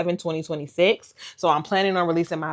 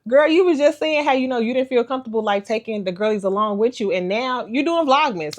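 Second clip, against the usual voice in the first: a hint of a teasing friend, higher; teasing best friend; 6 semitones higher, 3 dB louder than usual. Best friend teasing her about doing Vlogmas, higher. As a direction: call her out playfully. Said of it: "she was like".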